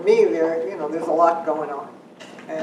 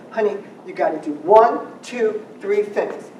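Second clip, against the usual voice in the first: put-on talking to a five-year-old; 4 semitones higher, 6 dB louder than usual. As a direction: spell it out gently like to a kid of five. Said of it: "I wouldn't talk to a thirteen-year-old that way".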